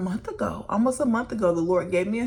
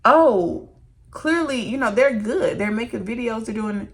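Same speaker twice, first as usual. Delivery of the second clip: higher, louder mock quote; mocking onlookers; 4 semitones higher, 5 dB louder than usual. Imitating people who think influencers are fine, mock high voice. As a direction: lampoon the people who judge. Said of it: "And they say".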